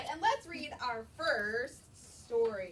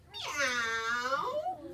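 a stretched kitten meow; cat meow; 4 dB louder than usual. Acted. Puppy George meows like a cat to his mother. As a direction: mew like a little cat. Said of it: "George went".

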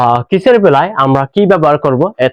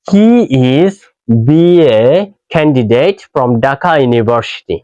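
slow model sentence; 3 semitones lower, much slower than usual. Shown as a demonstration. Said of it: "slow model sentence".

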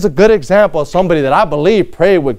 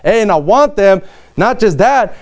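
commanding king; 3 semitones higher than usual. Pretend. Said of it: "Imagine having to say".

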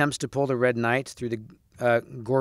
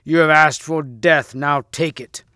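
slow, loud pronouncement of doom; thundering threat; 2 semitones higher, 6 dB louder than usual. Acted. Red Knight promises Percival death, thundering. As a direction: weigh each word heavily, voice raised. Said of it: "in a voice of thunder".

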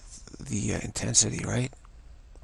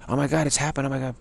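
mock panic; 4 semitones higher, faster than usual. Shown as a demonstration. Teacher demos the panicked reaction to students. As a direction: show the panicky reaction we avoid.

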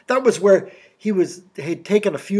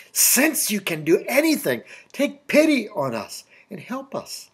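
higher-pitched appeal, sure of the answer; confident plea; 4 semitones higher than usual. Acted. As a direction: ask as if certain he can. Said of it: "What if he'd said "since".

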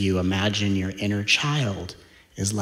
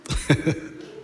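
airy laugh; 6 semitones higher, 3 dB quieter than usual. Real, not acted.

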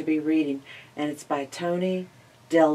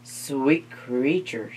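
cunning spider; 2 semitones lower, slower than usual. Acted. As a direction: flatter her, sweet and sly. Spider flatters.

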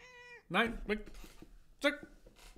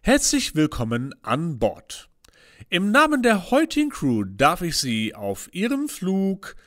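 pilot announcement; 3 semitones higher, 4 dB louder than usual. Acted. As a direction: announce like an airline captain. Captain's cabin announcement. (Flugkapitän-Durchsage)

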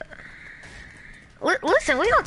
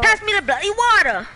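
shouted fake British accent, higher and louder; mock British accent; 8 semitones higher, 5 dB louder than usual. Demanding water from his squad in mock British accent. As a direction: bark it like a cartoon Brit. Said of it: "I'm British".

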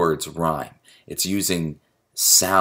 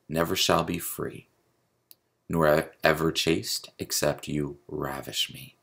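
poetry reading. Acted. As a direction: read the poem aloud, understated, with pauses between phrases. Reads a sonnet aloud.

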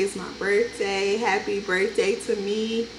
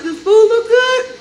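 excited; 11 semitones higher, 5 dB louder than usual. Real, not acted. High excited boast, laughing.

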